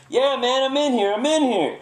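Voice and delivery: loud, high muffled shout back; yelled answer. Retold or imitated. Fugitive yelling back from the locked trunk, loud shout. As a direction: holler from inside the trunk.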